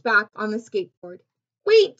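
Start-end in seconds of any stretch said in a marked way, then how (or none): 1.6-2.0 high, loud urgent call; raised storybook call; calling to wait. A narrator's reading. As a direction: stop them before they take off. Character urgently stopping the skater.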